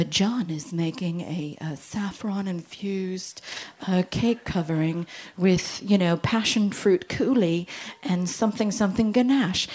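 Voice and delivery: slow, hushed imitation of a TV baking narrator; Bake Off presenter voice. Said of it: "I know the voice".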